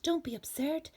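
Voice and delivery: mocking friends. Friends mocking the small bird.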